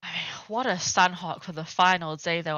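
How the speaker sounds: breathless after an exciting game; talking while catching breath. Real, not acted. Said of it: "I'm also almost out of breath".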